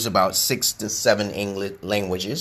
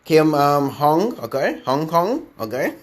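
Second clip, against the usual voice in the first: higher, put-on teasing voice; teasing mock of a name; 6 semitones higher, 4 dB louder than usual. Comedian making fun of Kim's name, teasing put-on voice. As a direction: playfully make fun of the name. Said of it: "I will make fun of your name sometimes".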